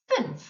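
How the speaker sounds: Fünf with a rounded ü; German umlaut. Shown as a demonstration. Teacher modelling the umlaut vowel in Fünf. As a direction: say Fünf with a rounded ü, lips pursed. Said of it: "The key sound here is the U".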